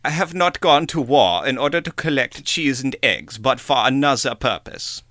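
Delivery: lightly put-on German accent, almost whispered. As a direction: read the quote in a half-hearted German accent. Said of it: "try to do a German voice".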